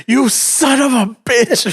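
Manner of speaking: slow, drawn-out mock curse; mock insult. Coworker retelling a rigged job, slow mock insult. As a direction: drag out the insult like a sore loser.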